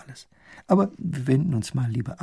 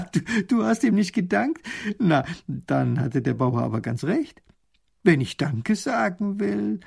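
amused princess; 6 semitones higher than usual. Acted. Princess mocks her father.

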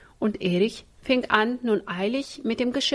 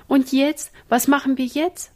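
higher, louder helpless question; at a loss; 6 semitones higher, 5 dB louder than usual. A narrator's reading. Sister with no berries left, asking helplessly. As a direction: ask it as if out of ideas. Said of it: "fragte Ina ratlos".

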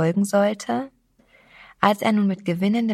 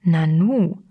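a short astonished nanu, slightly louder; 4 dB louder than usual. Acted. Stranger taken aback by her outburst, mildly astonished. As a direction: let the surprise pop out lightly. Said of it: "staunte er".

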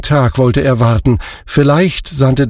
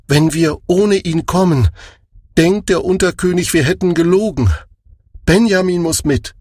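higher, insistent younger voice; urgent brothers; 6 semitones higher than usual. A narrator's reading. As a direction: press the point to father.

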